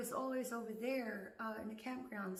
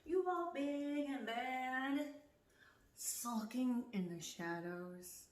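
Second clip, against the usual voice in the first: taunting; much slower than usual. Real, not acted. Mocking neighbors while walking her driveway. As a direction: drag it out mockingly.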